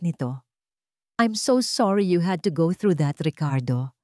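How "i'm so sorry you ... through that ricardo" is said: lightly voiced sympathy, falling at the end; sympathetic. A narrator's reading. Isabela consoles Ricardo, sympathetic. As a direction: offer sympathy smoothly. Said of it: "Ang kanyang boses ay puno ng simpatya".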